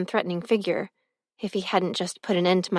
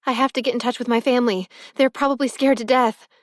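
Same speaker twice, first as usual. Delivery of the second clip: rushed and urgent, higher and louder; frantic; 4 semitones higher, 4 dB louder, faster than usual. Acted. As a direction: blurt it out fast in panic. Frantic call for help.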